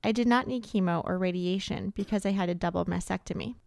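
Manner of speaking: measured, slightly softened read-aloud; reading comments aloud. Real, not acted. Host reads anonymous survivor comments, subdued read-aloud. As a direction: read out someone else's words with restraint.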